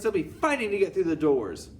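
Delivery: very high, loud shrill cry; squealing witch chorus. Acted. Witches answering their leader, very high and loud. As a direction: squeal eager agreement.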